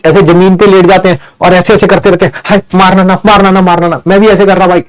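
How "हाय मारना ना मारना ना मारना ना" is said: put-on whiny child begging mom not to hit; hammed-up plea to stop the beating; mock pleading child. Boy on the floor begs his mother to stop. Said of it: "वो ऐसे नहीं करते जब आप ऐसे".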